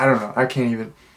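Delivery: ordinary talk, nothing marked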